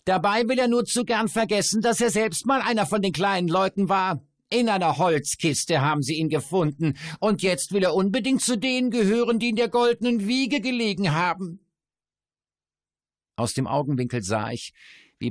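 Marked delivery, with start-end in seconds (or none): 0.0-11.6 high, loud gloating sneer; spiteful dwarf voice. A narrator's reading. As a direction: needle him with glee. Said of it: "Ein gehässiger Zug".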